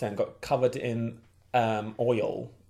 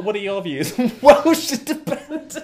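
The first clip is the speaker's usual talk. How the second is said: light Welsh lilt, playful; mock Welsh accent, laughing; 8 semitones higher, 7 dB louder than usual. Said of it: "Was that, was that a Welsh accent?".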